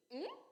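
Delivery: a short "hum" rising like a question; soft, doubtful rising "hum". Shown as a demonstration. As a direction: lift "hum" sharply at the end, in doubt. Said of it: "Aquela dúvida".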